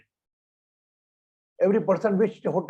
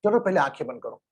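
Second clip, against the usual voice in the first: guided meditation; 3 semitones lower, much faster than usual. Acted. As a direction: lead them inward with long pauses. Leads group into closed-eye meditation.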